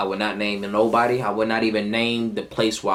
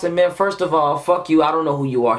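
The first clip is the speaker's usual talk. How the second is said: higher, heated retort; retold angry comeback; 7 semitones higher, 4 dB louder than usual. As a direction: act out telling them off. Retelling his angry comeback.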